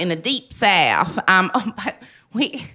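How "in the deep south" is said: light mock Southern accent; a touch of put-on Southern twang. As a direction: lean into Deep South vowels. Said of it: "we do the accent".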